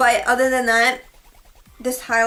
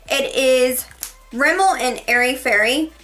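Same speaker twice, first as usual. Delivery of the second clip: breathless while talking; a bit winded between words; out of breath. Real, not acted. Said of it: "I don't know why I'm so out of breath".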